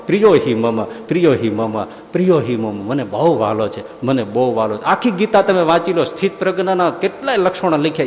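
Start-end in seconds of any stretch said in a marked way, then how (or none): 0.1-4.8 tender loving voice. Acted. God tenderly calls the devotee dear, softening. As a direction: let it flow out like a mother's love. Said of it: "ભગવાન સ્રવવા માંડે".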